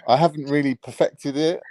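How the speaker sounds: slow, lightly put-on posh British accent; careful posh accent, slang dropped. Shown as a demonstration. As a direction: speak slowly in an unrefined posh voice. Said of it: "Let me hear your posh voice".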